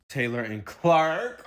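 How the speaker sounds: slow, dreamy drawn-out names; mock dreamy. Shown as a demonstration. Mocking the couple's sweet talk, slow and dreamy. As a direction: say the names like a lovesick sigh. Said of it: "Their conversations go like this".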